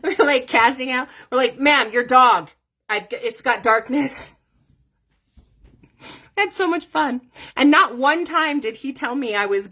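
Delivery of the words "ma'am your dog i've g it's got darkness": mock exorcist. Mock exorcist casting out demons.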